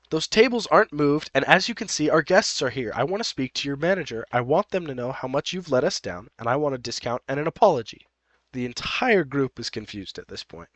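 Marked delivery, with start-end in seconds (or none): 0.1-8.1 indignant demand, quickening in places; officious complaint. Acted. Narrator voices Happy demanding OP's manager, officious. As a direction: lodge a self-important acted complaint.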